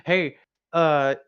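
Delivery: imitating an overbearing mom; demanding mother.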